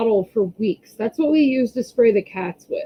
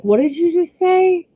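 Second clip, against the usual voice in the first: higher, startled question; shocked; 9 semitones higher than usual. Retold or imitated. Mom retelling her shock at son's words, high startled. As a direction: replay the shock of hearing it. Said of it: "And I was like".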